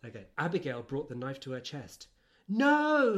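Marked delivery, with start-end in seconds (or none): 2.5-3.2 louder, higher mock scream; reading a scream. Reading Harriet's scream from the novel, in a loud mock cry. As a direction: belt the No like a melodrama. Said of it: "Harriet screamed".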